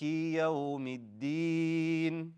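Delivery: slow, measured chanted verse with held final vowel; Quran recitation. Shown as a demonstration. Teacher models a verse for the class to repeat, slow recitation. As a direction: recite it drawn out for students to echo.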